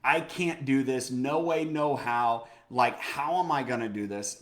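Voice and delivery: a mild mock panic on the edge of the bridge; panicked self-talk. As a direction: drag out the words as panic rises. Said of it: "I'm thinking".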